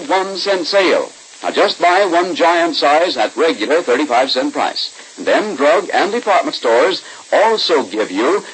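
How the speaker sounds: bright, upbeat announcer selling the product; radio ad read. Acted. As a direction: sell it like a vintage radio pitchman. Announcer reads tooth powder commercial.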